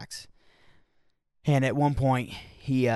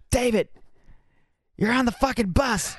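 much higher, louder laughing shout; exasperated shout; 12 semitones higher, 4 dB louder than usual. Retold or imitated. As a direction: wake David up, half laughing. Someone snaps at screaming David.

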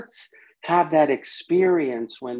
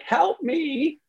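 pleading part; 14 semitones higher than usual. Retold or imitated.

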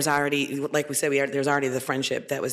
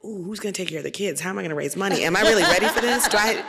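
laughing through doubtful questions, a touch higher; mock anxious self-doubt; 5 semitones higher than usual. Panelist mocks women's doubts about running, laughing. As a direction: play the nervous woman while giggling. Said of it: "We're like".

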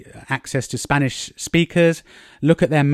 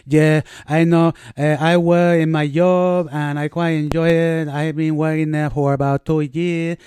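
put-on Spanish accent in English; 3 semitones higher than usual. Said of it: "they might be".

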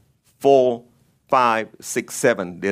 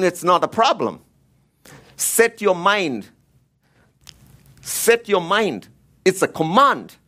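higher, emphatic preaching; insistent preacher, pitched up; raised voice; 4 semitones higher than usual. Real, not acted. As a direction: raise your voice to drive the command home. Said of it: "Sorry for raising my voice".

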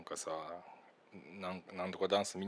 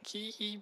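mock high "kii" call; high-pitched cry imitation; 14 semitones higher, 5 dB quieter than usual. Retelling the YouTube dance clip, high imitated cry. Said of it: "高い声でさ".

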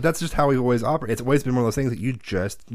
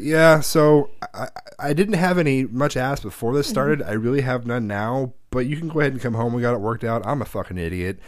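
sheepish stepdad. Retold or imitated. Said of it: "His exact words".

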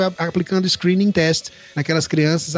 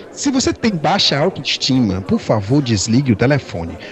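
customer service voice; 5 semitones lower than usual. Retold or imitated. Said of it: "atende a secretária eletrônica dizendo".

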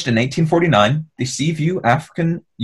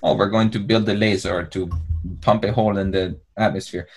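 cartoon villain; 3 semitones lower, 5 dB quieter than usual. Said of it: "like an Austin Powers".

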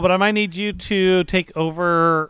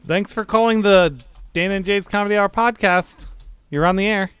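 radio host voice; 7 semitones higher, 5 dB louder than usual. Pretend. Mock radio call-in show opener.

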